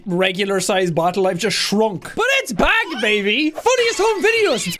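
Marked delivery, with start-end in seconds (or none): 2.2-3.5 high, punchy hype on back; hyped shout. Real, not acted. YouTuber hyping his show's return, excited. 3.5-4.8 high, bright show title call; hype announcement. Real, not acted. YouTuber announcing his show title, excited.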